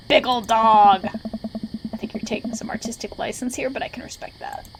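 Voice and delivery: lightly voiced mentor, loud then trailing to a whisper; amused teacher's verdict; Robert voice. Mentor reacts to the player's dog carving, lightly voiced. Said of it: "my Robert voice".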